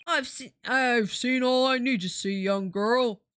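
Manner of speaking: put-on dismissive shopkeeper voice; shopkeeper character. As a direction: brush her off in the shopkeeper's voice. Shopkeeper character answers the girl.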